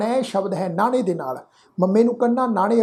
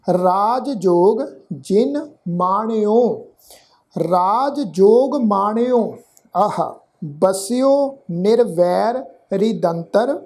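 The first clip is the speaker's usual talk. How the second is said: slow, measured Gurbani reading; scripture recitation; slower than usual. Shown as a demonstration. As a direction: recite in short phrases with drawn-out vowels. Teacher recites scripture for learners.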